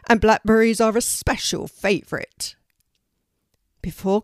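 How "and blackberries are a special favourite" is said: raised, louder raven voice; defending a friend. Acted. Melina the raven defends Poppy, raised defending voice. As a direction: press the point for your friend. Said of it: "defending Poppy".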